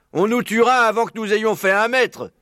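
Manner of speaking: high-pitched emphatic character voice; alarmed badger. Blaireau confirming the danger outside, exclaiming. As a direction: exclaim it to back up the fox. Blaireau agrees they would die.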